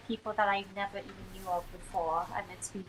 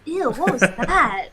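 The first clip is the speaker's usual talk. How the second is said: odd voice crack; 4 semitones higher, 8 dB louder, slower than usual. Real, not acted. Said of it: "I don't know what that was there".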